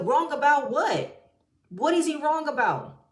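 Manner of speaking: exasperated. Real, not acted. Exasperated rant at cast.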